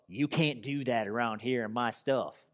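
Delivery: imitated Southern scolding; lightly mocked Southern accent of a possessive complainer. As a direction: put on a Southern accent to tell someone off. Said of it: "That was a Southern accent".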